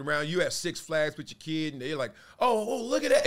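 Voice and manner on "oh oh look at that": put-on high, eager little kid voice; excited kid. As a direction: squeal like a child spotting a toy. Kid at Six Flags spotting toy.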